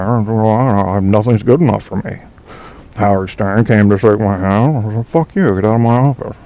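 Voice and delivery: a lightly voiced Don Imus, lazy and a little nasal; a mild take on a slurring, stuffed-nose radio host; Don Imus impression. Host doing a light Don Imus impression on air. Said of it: "there's your Don Imus".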